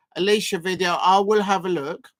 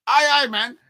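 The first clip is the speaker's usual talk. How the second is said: loud, higher attempt at a Geordie accent; Newcastle accent; 5 semitones higher, 5 dB louder than usual. Shown as a demonstration. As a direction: have another clumsy go at a Newcastle accent. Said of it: "I gotta work on it".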